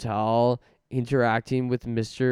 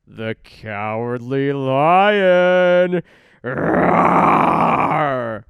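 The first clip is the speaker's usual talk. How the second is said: Cowardly Lion voice; 7 dB louder, much slower than usual. Acted.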